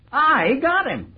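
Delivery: slow gloating repeat; savoring triumph. Acted. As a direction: stretch it out, relishing every word.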